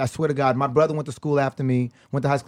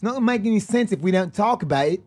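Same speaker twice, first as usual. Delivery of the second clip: South African accent attempt; 6 semitones higher than usual. Shown as a demonstration. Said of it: "Can I do a South African accent".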